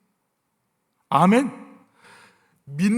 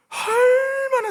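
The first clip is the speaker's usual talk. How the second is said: crying, pitch cracking much higher; fighting back real tears; voice breaking; 3 dB louder, much slower than usual. Real, not acted. Preacher's voice breaks mid-sermon. (울먹이며 갈라지는 목소리)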